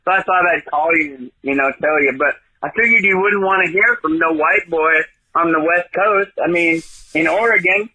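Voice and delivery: a hint of a put-on Southern accent all through; fake Southern accent. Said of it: "that's a totally fake accent".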